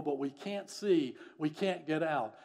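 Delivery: crying out. Retold or imitated. Trapped man answers his rescuer, crying out. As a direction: imitate a trapped man calling back. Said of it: "William Sinclair cried out".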